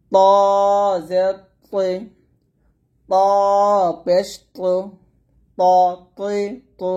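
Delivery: thick ত, not like Bangla তি; heavy ta. Shown as a demonstration. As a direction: keep ত, তৈ, তো full and heavy. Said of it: "একটু মোটা করতে হবে". (ত মোটা করে উচ্চারণ)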